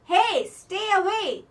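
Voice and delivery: loud, high, slow yell; angry warning shout. A narrator's reading. Old man pushing away the hugging boy, angry shout. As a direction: shout him back with force.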